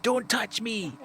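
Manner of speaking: bitter, hurt outburst; dejected anger. Acted. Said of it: "Iggy's tone jolted to dejected anger".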